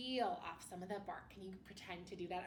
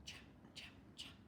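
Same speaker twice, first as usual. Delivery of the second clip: breathy whispered chant of chops; soft whispered chopping rhythm for children; 11 dB quieter, faster than usual. Pretend. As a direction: whisper the chopping like a little sound effect. Miming cutting sugar cane.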